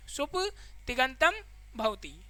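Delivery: सुप्तिगंतम drawn out slowly, then भवति softly; teacher slowly repeating the term सुप्तिगंतम for students; slow, spelled out. Shown as a demonstration. Teacher rereads सुप्तिगंतम भवति slowly so the class catches it. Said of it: "सुप्तिगंतम भवति (first take)".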